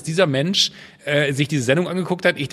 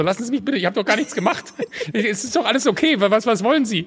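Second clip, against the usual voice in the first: mock flustered plea; 7 semitones higher than usual. Celebrity pleading to be left alone.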